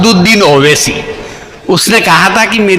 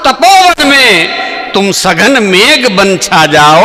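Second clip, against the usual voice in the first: poem recital; 7 semitones higher than usual. Acted. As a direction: thunder it like a stage poet.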